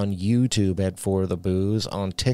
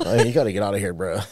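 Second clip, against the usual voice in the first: put-on surfer boy voice; faster than usual. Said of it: "You busted the surfer boy voice out".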